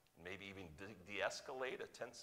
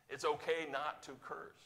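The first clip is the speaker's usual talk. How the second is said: okay lifted, rising and warmer; stress on okay; 6 semitones higher, 4 dB louder than usual. Shown as a demonstration. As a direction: lean on okay to give permission.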